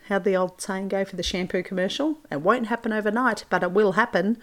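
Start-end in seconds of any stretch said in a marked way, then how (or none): 2.3-3.5 bad Kiwi accent on "It won't happen overnight"; deliberately atrocious New Zealand accent, "won't" leaned on. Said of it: "that really atrocious Kiwi accent". 3.5-4.4 put-on Kiwi accent. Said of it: "that really atrocious Kiwi accent".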